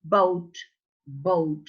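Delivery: "boat" starting with both lips pressed; bilabial B. Shown as a demonstration. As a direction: drill "boat" as separate falling words. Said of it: "B is bilabial".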